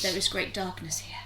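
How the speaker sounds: a lightly voiced dog, ominous and well-spoken; evil doggy voice. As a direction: say it like a villain dog with quiet menace. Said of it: "Just in his doggy voice".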